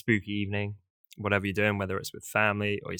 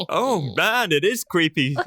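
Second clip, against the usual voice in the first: lingering witchy high voice; old hag voice; 7 semitones higher, 6 dB louder, slower than usual. Pretend. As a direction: still half in witch voice. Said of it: "Wow, that was good".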